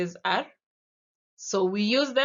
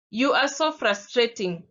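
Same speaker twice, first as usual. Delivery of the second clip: frustrated; 3 semitones higher, 4 dB louder than usual. Shown as a demonstration. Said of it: "you see the different emotions?".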